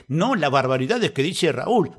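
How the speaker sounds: slow, drawn-out prissy complaint; mock the offended listener slowly; mimicking a scandalized neighbor. Radio host mocking a listener offended by his swearing, slow prissy whine. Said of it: "Y vos te ofendés porque".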